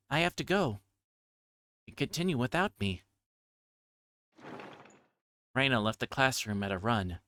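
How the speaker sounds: reading the novel's lines aloud, lightly voicing characters; story narration. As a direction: read it like a story for listeners.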